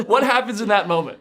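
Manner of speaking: asked through laughter; words bubbling with real laughter; laughing. Real, not acted. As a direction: keep laughing as you ask. Asks while still laughing.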